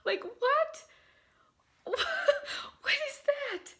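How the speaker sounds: high, tearful laugh of disbelief; overwhelmed joyful sob-laugh; laughing cry. Real, not acted. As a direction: break into happy tears. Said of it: "I am freaking out".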